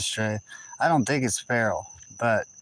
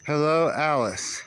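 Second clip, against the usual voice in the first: sweet pet greeting; 4 semitones higher, slower than usual. Real, not acted. Greeting a cat.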